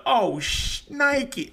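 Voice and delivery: imitating his own yelp of pain, slow and high; high mock yelp. Retelling his saw injury to friends, high slow mock yelp. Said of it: "and then I went".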